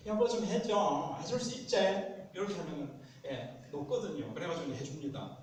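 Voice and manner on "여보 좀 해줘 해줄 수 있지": high, sweet wheedling; put-on cutesy pleading, pitched up; cute aegyo. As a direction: coax your spouse with playful cuteness. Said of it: "좀 애교스럽게".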